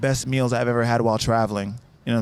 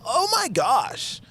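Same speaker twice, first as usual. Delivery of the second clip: high, drawn-out mock American shriek; imitated excited squeal; 12 semitones higher, much slower than usual. Overhearing a stranger in the street, imitated high squeal. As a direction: stretch it out in a high hammed-up cry. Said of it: "I hear someone go".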